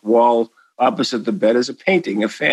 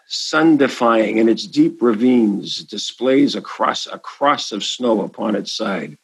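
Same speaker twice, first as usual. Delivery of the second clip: slow, measured poetic reading; solemn poem recitation; 2 semitones lower, slower than usual. Shown as a demonstration. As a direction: recite it slowly and properly. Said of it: "I may as well do it right".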